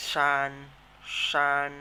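ซาน said loud and clear; ซาน called out loudly for students to repeat; loud clear model of ซาน; model pronunciation. Shown as a demonstration. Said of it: "ออกเสียงตามนะครับ ซาน".

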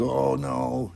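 high, drawn-out group "uh-oh"; mock dismay. Everybody points at the boy who dropped it, mock dismay.

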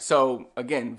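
ordinary talk, nothing marked

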